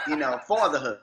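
"Fatherhood" said the New York way, with a W-like vowel and no R: fawthahood; New York pronunciation. Shown as a demonstration. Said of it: "What's the title of your book".

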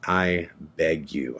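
low, soft retold plea; begging. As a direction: plead quietly and slowly, imitating your own begging. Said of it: "like, begging them".

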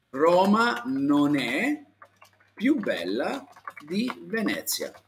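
"Roma non è più bella di Venezia" said slowly, word by word; slow model sentence. Shown as a demonstration. Teacher answering Luis with a slow model sentence. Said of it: "così".

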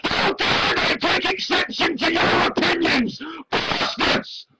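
high whiny mock outrage; mocking offended voice. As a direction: sneer it like a wounded prig. Mocks offended atheist critics.

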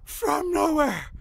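high drawn-out hype shout; excited shout. Acted. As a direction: call it like a huge comeback. Hyped wrestling commentary.

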